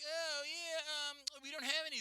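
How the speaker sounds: put-on high, sing-song counter girl; high mock drive-thru worker; mock cashier voice. Retold fast-food cashier reply.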